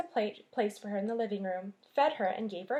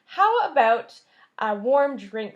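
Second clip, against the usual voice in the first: put-on chilled boy; 9 dB louder, slower than usual. Chilled mouse asks for drink.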